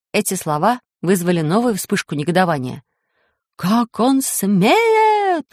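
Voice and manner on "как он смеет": high, slow indignant cry; outraged shout. Acted. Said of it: "кричали толстые".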